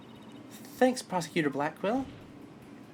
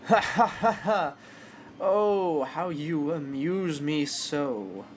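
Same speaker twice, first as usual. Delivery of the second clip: sinister villain laugh; much slower than usual. Acted. Prosecutor mocking the detective with slow gloating laughter.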